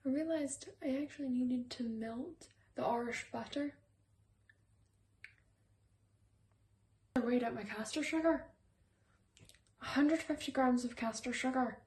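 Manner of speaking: lightly put-on, horrible Irish accent; mock Irish lilt, half-hearted; bad Irish accent. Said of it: "stop talking in my horrible Irish accent".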